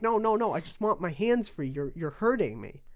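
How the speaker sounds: hammed-up plea to be let go; mock pained plea. Retelling begging Boogie to get off his hand, mock pained and loud.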